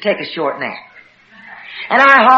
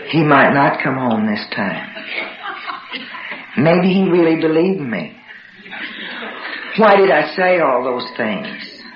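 low, subdued night-time worrying; worried regret; 3 semitones lower than usual. Retold or imitated. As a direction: think aloud, anxious and remorseful. Acted worried thoughts while pacing at night.

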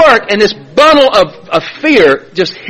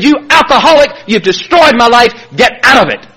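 raised, higher-pitched accusation; retold yelling; 5 semitones higher, 3 dB louder than usual. Son accusing his father, retold angry yell. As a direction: imitate an enraged son's outburst, partly held back. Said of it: "he yelled as loud as I've ever heard anything".

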